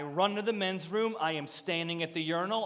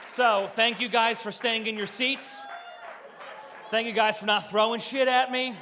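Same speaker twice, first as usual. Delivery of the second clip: announcer shout; 3 semitones higher than usual. Real, not acted. Shouting to the crowd.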